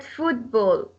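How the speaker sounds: "football" with FOOT stressed. Shown as a demonstration. Teacher shows compound noun stress, FOOT stressed in "football". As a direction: lean on the first word in "football". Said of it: "Football will take foot".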